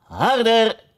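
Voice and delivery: high urgent shout; Red Queen calling harder harder. Acted. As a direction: urge her on, calling out. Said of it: "En toch riep de koningin".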